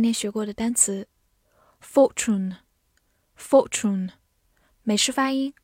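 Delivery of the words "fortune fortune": fortune said twice, each syllable drawn out; slow review drill. Shown as a demonstration. Teacher to students, drawing fortune out in review. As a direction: drag out fortune for the class. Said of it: "review drill".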